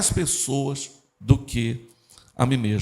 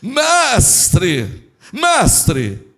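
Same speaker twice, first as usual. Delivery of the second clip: loud, drawn-out pious hailing; hammed-up churchy call for attention; religious voice; 4 semitones higher, 6 dB louder than usual. Law expert calling to Jesus, exaggerated religious intonation. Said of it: "tava nessa cenário aqui".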